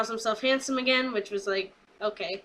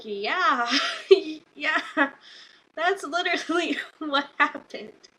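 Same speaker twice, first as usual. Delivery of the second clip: laughing agreement; 6 semitones higher, slower than usual. Real, not acted. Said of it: "And I'm like".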